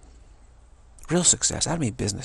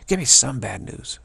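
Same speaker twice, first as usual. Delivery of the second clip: louder pleading; 5 dB louder than usual. Retold or imitated. Begging the speaker for bad news, a louder mock plea.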